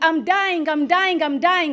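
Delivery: put-on child screaming repeatedly. Retelling how the son screams while playing Roblox: imitating son screaming. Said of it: "he's screaming".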